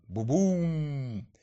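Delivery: a far-off rumbling boom; distant thunder. A narrator's reading. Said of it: "послышалось издали".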